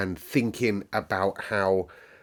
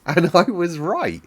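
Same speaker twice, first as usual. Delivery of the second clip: laughing; 9 semitones higher, 6 dB louder than usual. Real, not acted. Laughing at her own guess.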